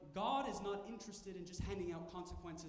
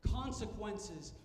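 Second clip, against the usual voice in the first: slow, louder, stern words; stern God mock; 3 semitones higher, 5 dB louder, slower than usual. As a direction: dole out each word like a harsh judge. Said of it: "comes to us and says".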